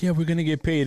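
ordinary talk

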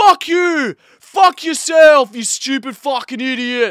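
very loud, very high, shrill, furious yelling. Describing how they road rage, showing the style they don't have: mock road-rage yelling. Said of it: "I'm not like this".

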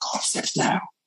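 urgent, pressing, hushed whisper. Retelling the same voice returning a third time: imitating an urgent whisper. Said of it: "with urgency".

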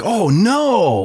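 very high, delighted, thrilled cry, "no" stretched. Showing how an earlier "oh no" was meant: excited "oh no". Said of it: "that was meant as a term of excitement".

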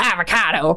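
put-on old man voice. Retelling a movie scene, quoting an old guy in the town. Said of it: "this one old guy and he goes".

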